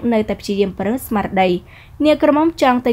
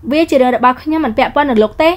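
higher, sharp retort from a proud heroine; haughty young woman; 4 semitones higher, 5 dB louder than usual. Acted. Heroine snapping back at the rude man, higher pitched. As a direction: toss it back at him, offended. Heroine refuses his help.

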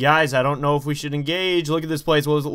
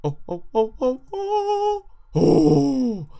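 panicked; 13 semitones higher, much slower than usual. Real, not acted. Panicked falling in game.

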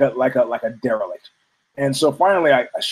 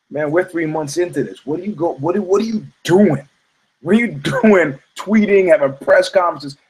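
imagined Rhonda scolding; 4 semitones higher than usual. Retold or imitated. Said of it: "I just could see Rhonda sitting there".

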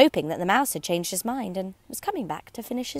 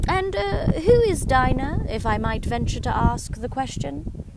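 Lowry voice; 6 semitones higher, 4 dB louder than usual. Acted. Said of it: "said the Lowry".

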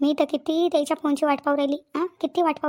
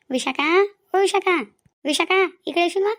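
calling out; 3 semitones higher than usual. Acted. Calls Vishakha to come over.

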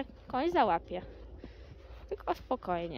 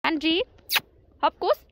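loud urging; 5 semitones higher, 7 dB louder than usual. Real, not acted. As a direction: cheer the horse on from the middle. Urging horse. (głośne nawoływanie konia)

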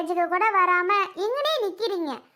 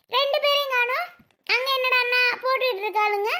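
higher, chattering aunt voice; a busybody aunt fussing at the function; higher-pitched gossiping relative; nosy relative woman; 6 semitones higher than usual. Acted.

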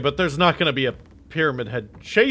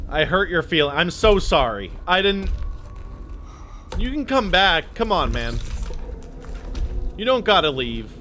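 mock apology; 5 semitones higher than usual. Mock apology to retreating monster.

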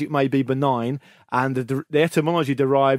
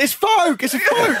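mock celebration; slower than usual. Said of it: "punning goal celebrations".

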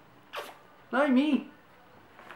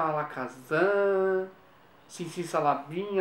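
drawn-out magician spell words; casting a spell slowly, like a stage magician; slow magic incantation; much slower than usual. Acted.

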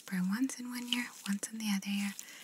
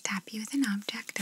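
ASMR whisper. Acted. ASMR artist whispering instructions to the listener. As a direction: breathe the words gently, no voice.

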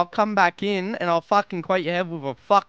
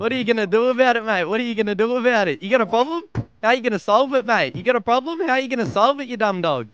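rapid-fire, higher-pitched confrontational goading; heated challenge; 4 semitones higher, faster than usual. Real, not acted. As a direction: fire the questions at a rival, pressing hard. Heated quarrel, repeated challenges to rival.

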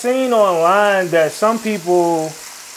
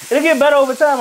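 put-on mild Italian accent; 8 semitones higher, 4 dB louder than usual. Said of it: "Rank his Italian accent".

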